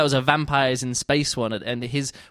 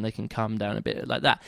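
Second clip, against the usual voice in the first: calmed-down read; 4 semitones lower, 5 dB quieter than usual. Shown as a demonstration. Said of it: "when they calm down".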